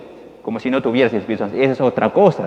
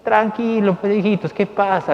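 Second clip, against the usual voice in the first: Jesus reassuring; 6 semitones higher than usual. Acted. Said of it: "qué les dice Jesús?".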